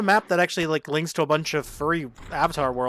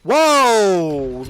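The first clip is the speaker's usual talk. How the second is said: shocked; 3 semitones higher, 8 dB louder than usual. Real, not acted. Reacting to a crude joke.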